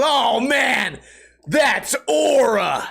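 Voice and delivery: high, slow drawn-out awe on Aura; mock kid awe. Kid admiring the adult skater, high slow awe. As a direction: gush like an impressed kid. Kid's compliment acted out.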